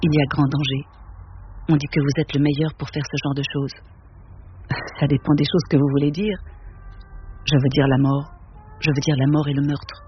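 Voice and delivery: measured, even reading of a novel; story narration. A narrator's reading. Reading Auster's novel to an audience, steady literary narration. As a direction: read it to the room, unhurried and calm. Reads Cité de Verre aloud.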